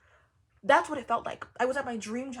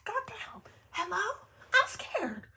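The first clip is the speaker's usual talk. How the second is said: high, half-laughing mock fright; mock scared; 12 semitones higher, slower than usual. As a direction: squeal it like a comic scare. Retold own reaction.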